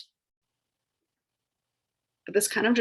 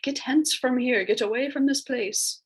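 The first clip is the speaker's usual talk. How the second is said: a bit higher, mock stage command; fancy old-English voice; 4 semitones higher than usual. Shown as a demonstration. Teacher demos hence for the class, lightly hammed-up and fancy. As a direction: play it like a lightly hammed-up Shakespearean actor. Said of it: "I make it sound fancy when I say it".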